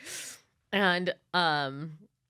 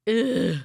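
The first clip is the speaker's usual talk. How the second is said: short, louder grunt of revulsion; disgusted ugh; 3 semitones higher, 5 dB louder than usual. Retold or imitated. Reenacting reaction to the hat, disgusted grunt. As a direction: let out a curt "ugh", pushed loud. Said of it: "just visibly disgusted".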